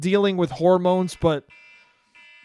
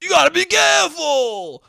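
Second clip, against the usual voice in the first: much higher, loud exasperated shout; frustrated dad; 12 semitones higher, 6 dB louder, slower than usual. Retold or imitated. Dad scolding his son instead of teaching him, exasperated shout. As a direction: groan then snap the warning. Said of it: "my dad was just like".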